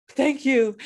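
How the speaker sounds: high, thrilled squeal of gratitude; gushing thanks. Retold or imitated. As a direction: gush it, hammed-up and loud. Acting delight at compliment on French.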